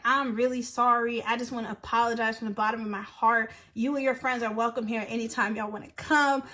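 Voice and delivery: low, subdued imitated apology; apologetic. Bouncer apologizing to her over the phone, contrite. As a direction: retell a contrite plea, voice dropped. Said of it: "Like, just really apologizing".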